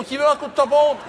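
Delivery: hawker's call. Retold or imitated. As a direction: call out to buyers like a market seller. Mimics stamp seller calling out.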